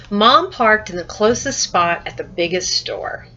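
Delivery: lively, expressive story reading; with some emotion. Shown as a demonstration. Teacher reads a statement from the story, with some emotion. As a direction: read it with a touch of excitement. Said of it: "I did give it some emotion".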